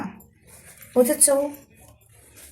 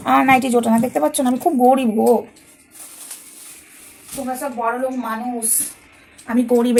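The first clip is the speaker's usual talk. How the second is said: mock pleading. Mock plea for nighties.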